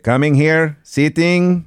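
high-pitched singsong dog talk; high, playful pet voice. Acted. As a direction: coax a dog in silly high-pitched slang. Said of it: "I'll be talking to the dog".

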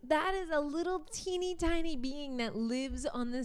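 hushed marveling whisper; awed whisper. Real, not acted. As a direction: whisper it in wonder.

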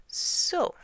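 booming, drawn-out announcement; big royal pronouncement; kingly proclamation. A narrator's reading. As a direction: proclaim it loudly to the whole council. King pronounces verdict to council.

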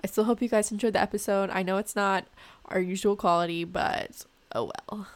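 muffled, boxy trash-can mic sound; like speaking from inside a bin; talking into a trash can. Real, not acted. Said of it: "I sound like I'm in a trash can".

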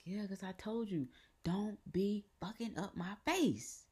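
high-pitched mock scolding; imitated scolding grandmother. Grandmother relieved it's temporary, imitated high-pitched scolding. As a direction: imitate a grandmother telling off her grandchild, slowing down. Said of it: "She was just like".

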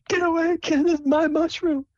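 put-on guard your mushroom like a feisty little girl; high pouty girlish voice; bossy Sable. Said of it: "She's like".

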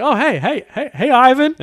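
high, loud, laughing mock greeting; imitating American colleagues. US colleagues greeting the Aussie, high excited mimicry. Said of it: "And I was like".

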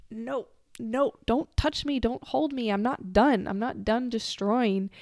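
mildly agitated, insistent pleading to be left; defiant refusal. Retold or imitated. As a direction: push away the one holding you. Retold resisting the blue being's hold.

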